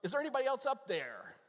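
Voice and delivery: high, loud punchline shout; hammed-up desperate call; Bob calling out. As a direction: holler up to the sky for someone else. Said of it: "and Bob goes".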